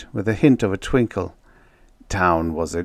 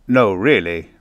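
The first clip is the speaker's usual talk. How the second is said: mildly emphatic, louder protest; earnest; 7 dB louder than usual. A narrator's reading. Crewmate defending the model builder's project, earnest. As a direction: insist on it sincerely. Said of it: "Briggs said earnestly".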